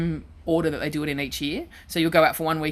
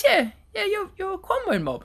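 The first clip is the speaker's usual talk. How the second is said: much higher, slow, eager voice of the man; imitating Frank. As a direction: repeat it insistently, higher and slower. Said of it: "he goes".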